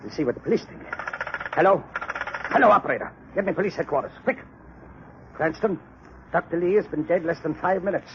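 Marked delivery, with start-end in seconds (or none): 1.5-7.5 urgent phone call. Acted. Lab chief urgently phoning police.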